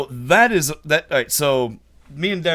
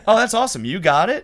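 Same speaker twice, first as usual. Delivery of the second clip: pitched up and a bit louder, excited; girlfriend impression; 6 semitones higher, 5 dB louder, faster than usual. Imitating girlfriend, excited about the bag. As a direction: mimic her delighted question. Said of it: "And she goes".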